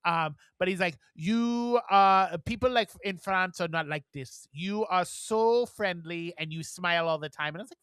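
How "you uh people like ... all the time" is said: put-on French accent, stretched opening word; imitated French customer's accent. French customer praising smiling shop worker, French accent. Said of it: "This is my French accent".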